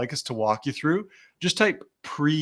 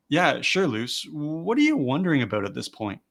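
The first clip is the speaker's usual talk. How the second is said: genuinely curious. Shown as a demonstration. Sales coach answering a hesitant lead, genuinely interested. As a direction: ask as if you truly want to know. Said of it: "hopefully, a very genuine question".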